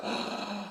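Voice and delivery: soft mock gasp; quiet intake of shocked breath. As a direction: imitate an appalled crowd gasping. Crowd's shocked reaction acted out.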